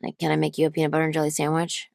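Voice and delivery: lightly voiced raspy, relaxed voice; Scarlett Johansson. Shown as a demonstration. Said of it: "I get to that raspy point".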